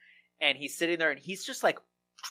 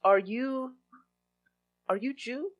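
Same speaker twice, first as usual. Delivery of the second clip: put-on light Israeli accent, pitched up and probing; lightly voiced Israeli contractor asking a pointed question; mild Israeli accent, contractor probing about religion; 10 semitones higher than usual. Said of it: "he says".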